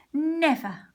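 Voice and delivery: high, loud refusal; defiant cry. A narrator's reading. Three little pigs shout back at the wolf. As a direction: cry out never. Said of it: "cried the three little pigs".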